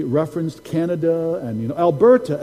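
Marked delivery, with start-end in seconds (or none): 1.8-2.4 louder imitated Ghanaian accent; prophet's Ghanaian accent. Preacher recalls the prophet's word, imitated Ghanaian accent. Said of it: "saying in his beautiful accent".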